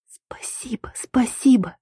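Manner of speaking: беззвучный благодарный шёпот; прошепчи с облегчением. A narrator's reading. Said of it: "шептала я". (благодарный шёпот на выдохе)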